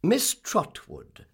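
high, loud, very slow announcement; stately self-introduction; imperious visitor. Acted. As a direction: announce yourself grandly, stretching each word.

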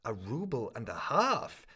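student repeating the pawnbroker's offer, shocked; incredulous cry. Acted. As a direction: echo the price in shocked disbelief. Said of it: "cried the young man".

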